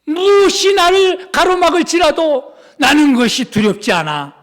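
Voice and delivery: ordinary talk, nothing marked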